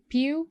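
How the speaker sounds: "pew" set apart as the second syllable. Shown as a demonstration. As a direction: say "pew" alone, as a piece of computer. ("pew" को अलग syllable बोलें)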